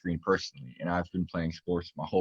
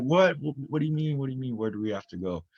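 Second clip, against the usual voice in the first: high-pitched mock panic, easing off toward the end; imitated freak-out; 7 semitones higher than usual. Mom reacting to her son's heart news by phone, imitated freak-out. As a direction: imitate mom's startled, rapid-fire questioning.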